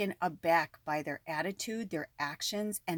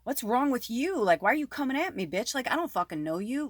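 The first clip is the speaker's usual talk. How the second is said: tough Chicago alter ego; 5 semitones higher than usual. Retold or imitated. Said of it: "My Southside Chicago Kelly wanted to be like".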